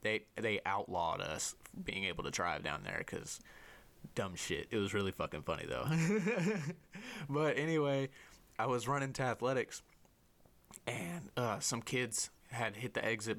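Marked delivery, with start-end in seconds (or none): 5.9-7.2 high, bubbling giggle at your own story; amused chuckle. Real, not acted. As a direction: chuckle helplessly, high and quick. Laughs at own funny story.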